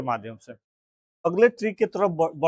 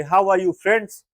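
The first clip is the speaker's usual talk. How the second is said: upbeat, a bit louder and drawn out; excited party greeting; 3 semitones higher, 5 dB louder, much slower than usual. Shown as a demonstration. Teacher demos greeting a friend at a party, lively and slow. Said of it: "hand को झटका दे के बोलेंगे".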